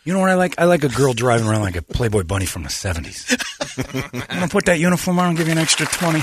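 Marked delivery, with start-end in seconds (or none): 3.8-6.2 laughing through a cheeky joke, pitch up. Real, not acted. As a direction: chuckle the offer out playfully. Joking about a Playboy bunny driver.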